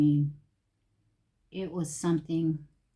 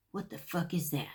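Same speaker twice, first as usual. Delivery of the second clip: laughing disbelief; 9 dB quieter than usual. Retold or imitated. Retold disbelief, breaking into laughter.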